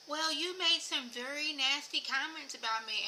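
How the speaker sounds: imitating a high-pitched innocent complaint. Imitating Whitney confronting Mary over nasty comments, high-pitched. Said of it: "she be using that high-pitched voice".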